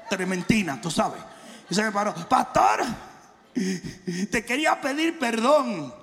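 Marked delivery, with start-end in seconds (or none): 2.3-5.9 imitating a sheepish lady. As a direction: confess like a guilty churchgoer. Pastor acts out lady apologising. (señora apenada pidiendo perdón, lenta)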